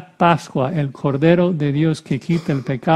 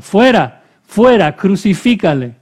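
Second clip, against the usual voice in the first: raised-voice mock chant, higher and louder, easing at the end; imitated crowd shouting; 4 semitones higher, 4 dB louder than usual. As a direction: call out like an angry mob, half-shouted. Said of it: "ellos gritaron". (gritos imitados de una multitud)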